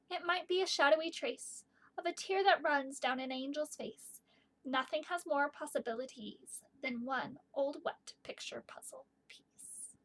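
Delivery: gentle storybook reading; reading to children. Acted. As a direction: read it like a bedtime poem. Reads poem aloud.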